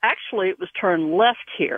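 ordinary delivery

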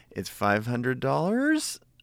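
pitch lifting at the end of "500". Answering what the price is: rising inflection on $500. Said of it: "it's just like up inflection".

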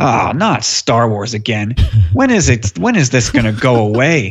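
slow, genuinely grumpy, displeased. Retelling a mother's reaction to her son's star wars action figures, imitating someone grumpy. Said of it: "she seemed really grumpy".

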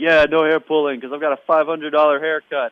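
sloppy, bad, put-on celebrity tycoon voice. Retelling a wrestling skit's line: bad Donald Trump impression. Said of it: "that's a bad Donald Trump impression".

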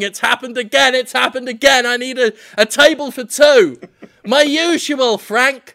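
put-on yell, held small, mild and half-voiced. Pitching a bit, bursting into a restaurant dragging a corpse: yelling.

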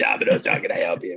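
raspy low smoker-lady voice. Imitating a lady answering the phone at domino's: low-voiced smoker lady. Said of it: "get some cigarette smoker from Florida".

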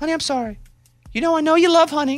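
very high-pitched put-on voice. Acting out an apology to a hunting partner: playing the girlfriend's voice. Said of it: "I'll be the girl now".

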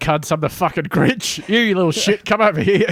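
high, crude character voice, laid on thick. Imagining how a hired performer walked in: acting out a hired Grinch. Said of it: "a guy just walks in and he's like".

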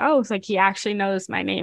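ordinary delivery

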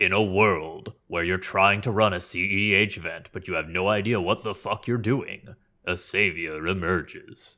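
dramatic movie trailer narrator voice. Joking about reading the sponsor ad another way: movie trailer narrator voice. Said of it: "we could have, like, movie narrated it".

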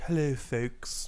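haughty, snooty, stuck-up, uppity voice. Co-hosts discussing how a word sounds; one demonstrates in a snooty voice. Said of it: "Like, snooty?".

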